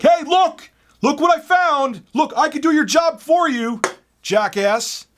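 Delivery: high, loud jeering goofball; mock gloating taunt. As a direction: crow it like a sore winner. Customer gloating at narrator.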